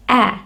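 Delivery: "a" as the open vowel that begins apple; short A sound. Shown as a demonstration. Teacher demonstrating short sound of letter A, short a. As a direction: sound out "a" as short aah, not ay. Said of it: "and not A".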